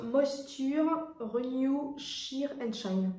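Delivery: English product name in a thick French accent; accent français exagéré. Shown as a demonstration. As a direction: say it the French way, slowing on Sheer and Shine. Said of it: "Avec, euh, accent français".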